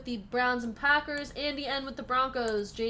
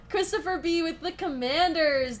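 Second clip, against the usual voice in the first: laughing through a name; 5 semitones higher than usual. Real, not acted. Still laughing as she reads out the team list. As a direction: call the name while still giggling.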